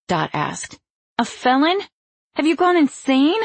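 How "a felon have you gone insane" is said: high, incredulous outburst; outraged disbelief. A narrator's reading. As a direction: throw it back, outraged. Dot outraged at police call.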